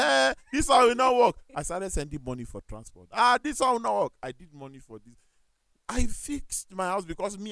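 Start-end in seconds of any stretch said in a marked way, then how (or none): 0.0-1.3 mock doubtful exclaim. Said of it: "everybody was like". 3.1-4.1 mock doubtful exclaim. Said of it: "everybody was like".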